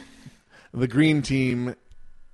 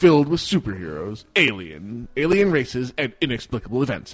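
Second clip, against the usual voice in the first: movie trailer voice; 6 dB louder than usual. Acted. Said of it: "I gotta do it in the movie voice".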